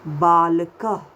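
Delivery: बालकः with a short ह breath at the end; breathy final h; visarga h ending. Shown as a demonstration. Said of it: "इसको हमने कैसे बोला".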